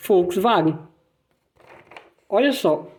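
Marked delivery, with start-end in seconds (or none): 0.1-0.8 Volkswagen with W as V; German Volkswagen. Shown as a demonstration. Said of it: "Como a gente viu já".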